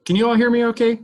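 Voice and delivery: sped-up, high chipmunk audio; cartoon character voice. Real, not acted. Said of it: "You sound like a cartoon character".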